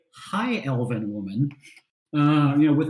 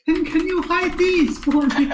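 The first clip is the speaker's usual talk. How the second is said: high, sweet pleading lady voice; high elf lady voice; 12 semitones higher, 4 dB louder than usual. Acted. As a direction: ask sweetly like a dainty lady. Elf lady asks shopkeeper.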